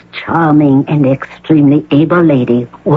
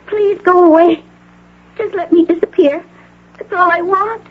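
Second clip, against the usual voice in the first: tearful begging; 13 semitones higher than usual. Acted. Patient begging visitor to leave.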